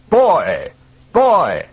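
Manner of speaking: wolf calling out a loud, high warning; shouting. Acted. Wolf running between packs, shouting a loud high warning. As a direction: yell the alarm to the pack.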